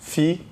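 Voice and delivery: oficial broken up as o... fi... ci... al; detached syllables through oficial. Shown as a demonstration. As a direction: finish the division with spaced beats on oficial. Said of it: "é suboficial".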